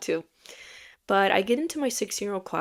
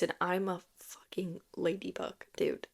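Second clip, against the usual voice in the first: soft embarrassed whisper; 8 dB quieter than usual. Real, not acted. Confessing to viewers her childish costume, whispered. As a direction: hide the swear in a whisper.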